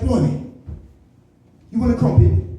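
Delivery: mock British accent; lightly hammed-up British accent; Daniel Kaluuya. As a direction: put on a cartoonish British accent. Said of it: "he talks like this".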